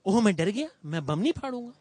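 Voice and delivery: loud, hammed-up fake fright; mock the idea of a bomber being scared off; sarcastic mock fear. Reporter mocking the notion a bomber fears a gun, sarcastic. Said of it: "تو وہ کیا کہے گا؟".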